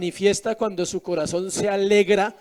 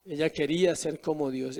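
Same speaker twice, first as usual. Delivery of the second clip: said again, much softer and lower, pressing the point; soft, low emphatic repeat of "Ella quería ser como Dios"; 5 semitones lower, 7 dB quieter than usual. Shown as a demonstration. Preacher repeats the key line.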